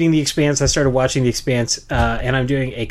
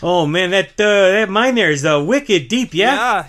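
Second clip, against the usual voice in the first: higher-pitched Boston dwarf; Boston accent; 6 semitones higher, 4 dB louder than usual. Acted. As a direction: play a dwarf miner with broad Boston vowels. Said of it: "Dwarves are from Boston now".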